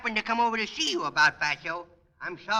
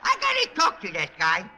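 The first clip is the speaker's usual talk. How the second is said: put-on bratty kid voice; 3 semitones higher, 3 dB louder than usual. Junior character voice throughout.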